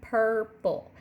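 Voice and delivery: purple sounded out as pur-ple; syllable demo. Shown as a demonstration. Teacher modelling purple for the class. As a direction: give purple two clear beats. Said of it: "put your hand under your chin and you'll say purple".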